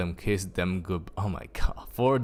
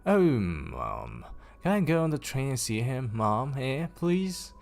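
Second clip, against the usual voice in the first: high, pleading little sister; begging girl; 6 semitones higher than usual. Acted. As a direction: wheedle mum into saying yes. Girl begs her mother.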